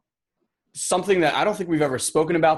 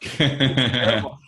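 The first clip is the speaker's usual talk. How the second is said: put-on botched Aussie accent; slower than usual. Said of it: "That was an excellent Sri Lankan accent".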